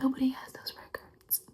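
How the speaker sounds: Nobody whispered softly, in disbelief; stunned whisper. Acted. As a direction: breathe it out, Nobody hushed. Disbelief about secret records.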